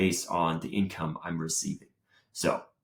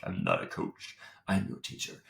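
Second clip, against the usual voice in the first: quiet; 2 semitones lower, 7 dB quieter than usual. Retold or imitated. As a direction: mutter it under your breath. Inner voice, mild protest.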